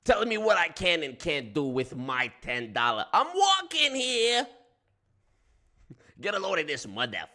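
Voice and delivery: I'm walking here, Brooklyn bark; loud New York street-guy outburst; New York accent. Pretend.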